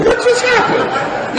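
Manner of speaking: high, slow, stretched mock alarm; nervous shock. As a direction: draw it out in comic panic. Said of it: "I'm getting nervous now".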